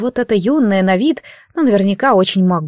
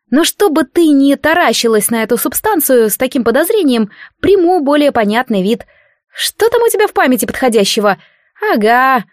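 put-on higher, cheeky spirit voice, grumbling at a stubborn girl; impish unseen spirit; 4 semitones higher than usual. Spirit scolding a sleeping priestess, impish and grumbling. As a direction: tease her like a bored little godling.

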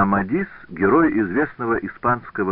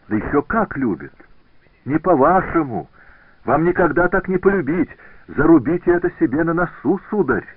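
much higher and louder, heated; indignant outburst; 9 semitones higher, 6 dB louder than usual. A narrator's reading. Scotsone defends her admirer to Benvenuto, indignant outburst. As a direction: fling it at him in wounded pride.

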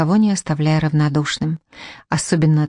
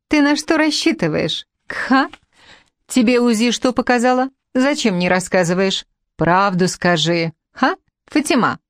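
higher, mocking questions thrown at her rival; sneering taunt; 5 semitones higher than usual. Bariyat taunting Fatima about her ultrasound, sneering. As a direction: needle her with each question.

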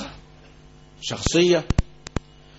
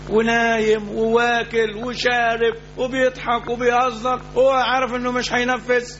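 scornful rebuke; 5 semitones higher, slower than usual. Real, not acted. Preacher scolds careless people.

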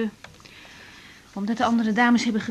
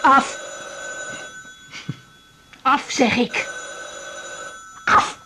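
barked order, louder; loud command; 3 semitones higher, 4 dB louder, slower than usual. Acted. Woman ordering the phone off, loud command. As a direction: order it firmly.

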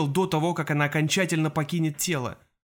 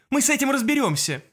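commanding; 10 semitones higher than usual. A narrator's reading. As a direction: take charge and send them off. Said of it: "приказала Анастасия".

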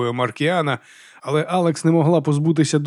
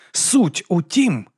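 snapped; 6 semitones higher, much slower than usual. Acted. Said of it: "огризнувся брат Діас".

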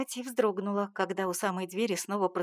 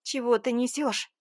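higher, louder tearful outcry; shouting through tears; 4 semitones higher, 4 dB louder than usual. Acted. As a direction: cry out in disbelief, fighting tears. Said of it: "прокричала я сквозь слёзы".

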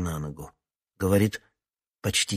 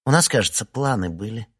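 snarling; 3 semitones higher, 4 dB louder than usual. Acted. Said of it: "оскалилась Настя".

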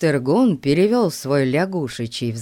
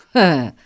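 angry snort; 6 dB louder than usual. A narrator's reading. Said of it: "злобно фыркнул".

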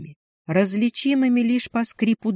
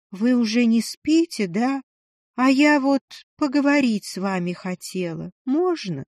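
put-on higher, hesitant young woman; tentative, apologetic ask; timid woman voice; 4 semitones higher than usual. Lishin appears in doorway.

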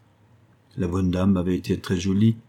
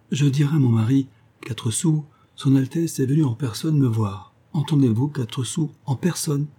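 excited; 5 semitones higher than usual. Acted. Madame Quatre-Sous boasts of the duke.

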